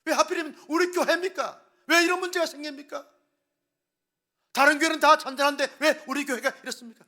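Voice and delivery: high, loud indignant protest; complaining to God. Retold or imitated. Pastor voicing a church member protesting to God, high loud indignation. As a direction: throw the question upward in protest. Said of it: "하나님께 원망 불평합니다".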